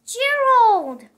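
excited call to a friend; loud happy shout of his name. Acted. Piggy calling out to her friend Gerald, loud and excited.

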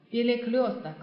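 Перекрёсток with a clear yo in -крёс-; ё sound. Shown as a demonstration. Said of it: "它还是发右的音".

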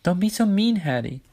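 high, loud little-sister complaint; protesting Olive. A narrator's reading. Olive protests at mean Hattie, high and loud. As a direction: wail it up high, then drop on the name.

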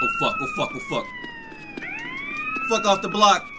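panicked shriek. Real, not acted. Getting shot at in game.

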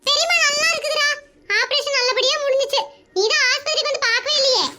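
lightly voiced sister, needling her brother; older sister voice. Sister voice again.

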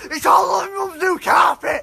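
crying shout over the carpet; mock outrage, half sobbing; lads' comic rant about mum's carpet, wailing; angry wail. Sketch of lads raging over mess.

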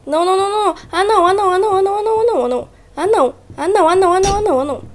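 high, loud panicked wailing of no; desperate panic. Real, not acted. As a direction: sheer desperation while being caught. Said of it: "eu me desesperei". (desespero total)

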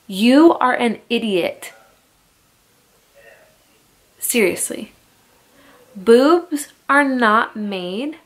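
emphatic, indignant telling-off; real fury. Real, not acted. Mother berating a talk show host over breastfeeding, furious. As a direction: lay into the talk show host, heated and punchy. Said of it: "I am so furious about Wendy Williams".

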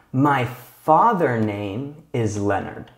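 slow, careful reading of the wrong form "My father name"; wrong sentence read slowly. Shown as a demonstration. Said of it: "this sentence is not correct".

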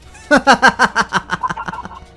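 loud, high villain cackle; evil laugh. Acted. Gemini knight gloats over trapped heroes, evil laugh. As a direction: cackle in theatrical triumph.

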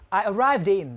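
ARRIVED IN linked so it ends in "din". Shown as a demonstration. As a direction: slide the D of arrived onto in. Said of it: "người ta sẽ âm luôn là âm din". (nối âm arrived in thành "din")

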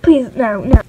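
pleading, panicked no; anguished denial. Acted. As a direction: beg not to be bathed. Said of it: "gonna get you a clean".

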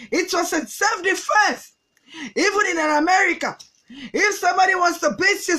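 slow, emphatic mock-American English; defiant self-defence, affected American accent; put-on American accent. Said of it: "Níbi tó ti ń sọ accent".

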